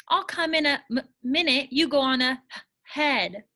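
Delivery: stammers on first sounds; stuttering. Acted. Cooper telling the girls to go on ahead, stammering. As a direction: trip on the start of words, then push on. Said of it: "my words get t- tangled".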